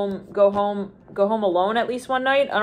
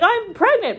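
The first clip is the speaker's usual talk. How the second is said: much higher, bursting out; mock announcement; 12 semitones higher than usual. Woman blurts out her pregnancy news, much higher.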